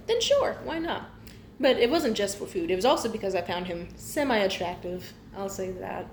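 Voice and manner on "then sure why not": mock casual shrug. Voicing a homeless woman agreeing.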